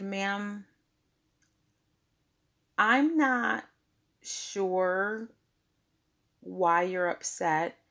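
steady, measured boundary; calm, unhurried, no anger in it; calm and firm. Shown as a demonstration. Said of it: "I said it just the way you're hearing me say it now".

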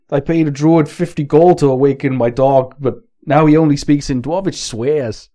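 put-on muddled, unplaceable go at a Boston accent; badly faked Boston-Wisconsin accent; bad Boston accent attempt. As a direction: attempt Boston and miss, wandering between accents. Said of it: "this is gonna be terrible".

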